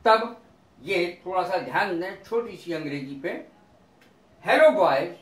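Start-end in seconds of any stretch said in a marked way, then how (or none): 4.5-5.2 raised-voice hail to a group; calling a greeting. Shown as a demonstration. Greeting some boys sitting around, calling out. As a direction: call out loudly to the lads.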